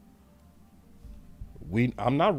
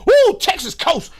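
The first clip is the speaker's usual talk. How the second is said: very high loud swooning ooh; sarcastic over-the-top hype; mock fan hype; 3 semitones higher, 12 dB louder, slower than usual. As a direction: ham up the gushing fan. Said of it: "I ain't gonna be giving y'all no".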